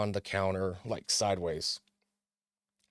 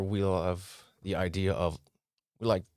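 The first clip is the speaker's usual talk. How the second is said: tripping over the words; stammering. Real, not acted. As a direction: stumble and restart the line. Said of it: "I'm sorry, st-, uh, stammered over that".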